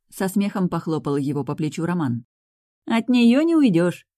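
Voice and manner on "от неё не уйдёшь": slow, higher and louder teasing; drawn-out knowing tease, loud and high; Женя chimes in to tease the groom, slow and playful; playful agreement. Acted. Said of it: "поддакнула Женя".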